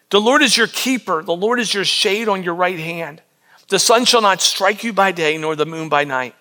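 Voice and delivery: measured, reverent reading; scripture reading. Acted. Pastor rereading the psalm to the congregation, reverent. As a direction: read the verses steadily.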